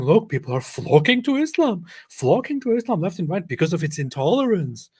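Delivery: loud sarcastic imitation. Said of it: "he's now saying".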